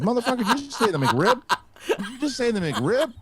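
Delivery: high, loud, laughing mock yell; mock furious yell. Woman outraged he asked about the McRib, laughing mock yell. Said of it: "She goes".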